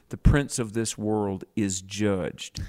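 slow, calm and unhurried; calm, slow pronouncement. Retold or imitated. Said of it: "just very calmly speaking of Satan".

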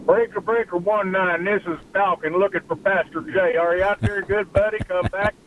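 trucker calling over the radio. Pretend. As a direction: hail him like a CB trucker. Caller opens with CB radio lingo.

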